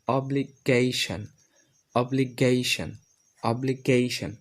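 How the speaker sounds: অব্লিগেশন slow, "obli-GAY-shan", falling; new pronunciation. Shown as a demonstration. Teacher models for learners, অব্লিগেশন as slow "obli-gayshan". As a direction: say অব্লিগেশন split before "gay", ending "shan". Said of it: "এই চারটা উচ্চারণ করি".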